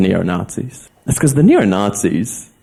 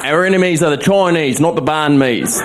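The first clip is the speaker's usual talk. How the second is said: mock patriot; 6 semitones higher than usual. Flag-clad patriots voiced.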